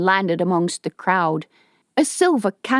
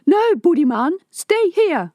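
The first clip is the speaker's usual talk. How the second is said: much higher, loud urgent shout; yelled; 11 semitones higher, 4 dB louder than usual. Acted. Ari calls Budiman back in the crowd, loud shout. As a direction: stop him from running off, loudly. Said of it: "Ari yelled".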